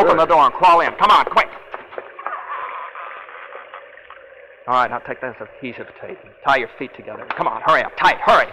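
loud, urgent commands at gunpoint; barked orders. Acted. Gunman to his captive, forcing him into the shed: loud urgent orders. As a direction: shove him along with a harsh, rushed shout.

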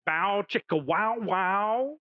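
slow, crooning bow chicka wow wow; lightly hammed-up, slow lounge-singer croon; mock Hebrew translation. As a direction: croon it like a cheesy love theme. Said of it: "is this in Hebrew".

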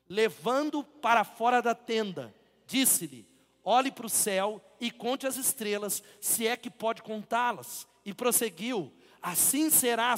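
tired, worn-out voice; voice giving out. Real, not acted. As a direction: read as the voice fails. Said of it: "minha voz tá acabando". (voz falhando)

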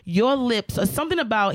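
lightly voiced Southern man; Southern accent. Comedian retells a passenger's advances from the driver, light Southern accent. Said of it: "'cause he was Southern".

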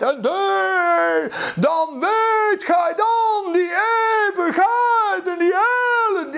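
mocking old-style deathbed preacher; mock doom preacher. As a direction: ham up a fire-and-brimstone preacher.

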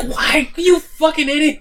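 high-pitched mock outrage; imitated exasperated delivery. Villain's unspoken scolding of careless guards, mock exasperated. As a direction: berate a fool in comic disbelief. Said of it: "It's like how he delivered that line".

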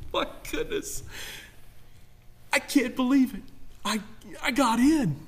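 soft, breathless laugh of disbelief; amazed disbelief. Retold or imitated. Saved believer arriving in heaven, hushed amazed disbelief. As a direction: marvel quietly that you made it. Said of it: "you're gonna be like".

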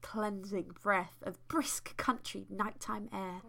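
measured, deliberate storytelling read; story narration. A narrator's reading. Host reads fan fiction to co-host, story narration. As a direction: read it like an unfolding tale.

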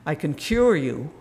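mock big man. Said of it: "not, you know".

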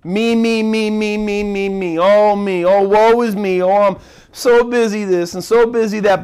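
a light whiny me me me, fading then rising; mock a self-absorbed whine; mock whining. Preacher mocking self-focused Christians, lightly whiny. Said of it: "really easy to get focused on me".

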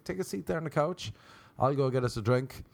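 easygoing, thrown-away invitation; casual host offer. Retold or imitated. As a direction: repeat it lightly, starting high.

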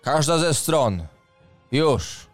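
commanding shout. Acted. Knight commands troops.

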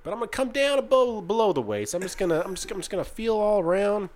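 imitating a TSA agent in a Southern accent; lightly put-on Southern accent, talking through a pat-down. Traveler imitates TSA agent explaining the waist pat-down, Southern accent. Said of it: "talking in a Southern accent".

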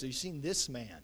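"this" leaned on, falling away after it; stress on THIS. Shown as a demonstration. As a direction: put the weight on the word "this". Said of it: "Notice the emphasis".

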